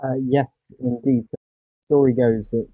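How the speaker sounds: sounds muffled, like a hand over the mouth. Real, not acted. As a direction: speak through a covering, dull and muffled. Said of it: "Sorry, you're still muffled".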